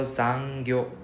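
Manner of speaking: zangyo said slowly, with its N; careful slow zangyo, N clearly sounded; correct zangyo. Shown as a demonstration. Teacher showing students how to say zangyo. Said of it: "the N is missing".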